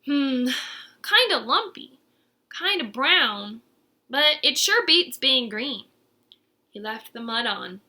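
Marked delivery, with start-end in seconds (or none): 0.0-5.9 Verdi musing. Acted. Verdi inspects his mud coat.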